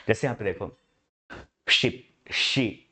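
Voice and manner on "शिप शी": शिप, शी said slowly with a held, steady ee sound; demo pronunciation. Shown as a demonstration. Teacher demonstrating a monophthong to students, slow and exaggerated. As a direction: stretch शिप to show the tongue stays still. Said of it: "एक जगह पे जीभ है".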